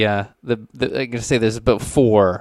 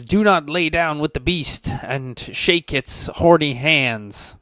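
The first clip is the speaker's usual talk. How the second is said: raised, slow preachy warning; ranting preacher; 5 semitones higher, slower than usual. Acted. Mad preacher warns the crowd against the beast, high slow ranting. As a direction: rant a solemn warning from the pulpit. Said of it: "to go on about how".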